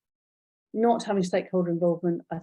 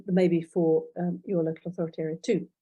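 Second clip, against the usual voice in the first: speaking through a throat tickle; slightly strained throat, fighting a tickle. Real, not acted. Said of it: "Oh, I've got a tickle in my throat".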